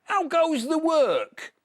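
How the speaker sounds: high, slow, loud bossy call; farmer calling. Acted. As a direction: bellow it down like a lazy farmer. Farmer calls again.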